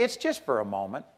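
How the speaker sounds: dropped low and soft, hushed; hushed aside. Shown as a demonstration. Preacher softly shows how to shrug off criticism. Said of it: "just say".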